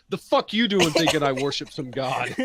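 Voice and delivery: lightly voiced indignant gnome; a hint of an offended gnome, incredulous; affronted gnome. Gnome to the human claiming his god, indignant. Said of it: "one of the gnomes goes like".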